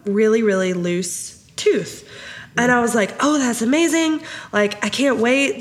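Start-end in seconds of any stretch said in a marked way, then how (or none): 3.2-5.6 higher-pitched mock delight at first; excited reaction. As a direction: retell an eager parent's thrill. Mom retells her delighted reaction.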